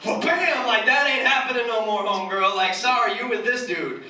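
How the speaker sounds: sassy God voice. Retold or imitated. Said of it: "God has this sense of humor".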